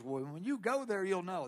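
lightly imitated Arkansas accent; a hint of Arkansas twang; Bob Jones. Friend answering "Where's there?", mild mock Arkansas accent. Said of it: "That's my Arkansas accent".

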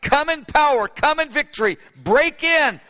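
high, loud repeated plea; fervent impassioned shout of prayer; urgent cry. Retold or imitated. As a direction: build the cry to break in. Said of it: "in the cry".

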